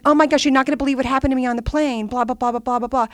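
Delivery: breathless-paced gush, imitating herself; excited gushing. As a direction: reenact bursting in with big news. Retells gushing news at home.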